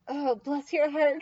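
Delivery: slow, drawn-out mock sympathy; bless-your-heart sympathy. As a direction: stretch it out as an acted, double-edged kindness. Acting out a Southern bless-your-heart.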